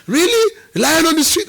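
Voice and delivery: high, loud astonished disbelief; amazed customer. Retold or imitated. Customer stunned by the lion story, shrieking surprise. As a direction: gasp it out like you can't believe it.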